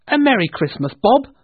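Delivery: high, loud festive outburst; joyful greeting. A narrator's reading. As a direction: burst out with hearty goodwill. Reformed Scrooge hugs his clerk.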